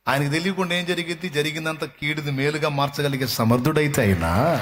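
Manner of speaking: high, ringing preacher's cry; fervent pulpit exhortation; full-force preaching. Acted. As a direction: preach it out to the whole hall.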